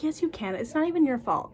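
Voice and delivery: gently insist, lifted in pitch; reassuring teacher. Retold or imitated. Teacher to student wanting to drop out, reassuring.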